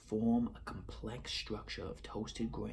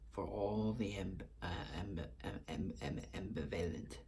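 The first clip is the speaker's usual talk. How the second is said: mock stumble; 2 semitones lower than usual. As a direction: fake stammering over the word ambivalent. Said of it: "I'm just playing".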